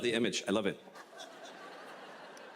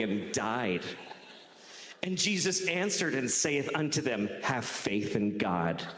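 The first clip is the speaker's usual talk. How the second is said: scripture reading. Acted. Reads scripture aloud.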